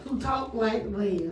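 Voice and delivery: slow, stretched Southern drawl; country accent. Shown as a demonstration. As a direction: draw the words out in a light country accent. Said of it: "I mean country".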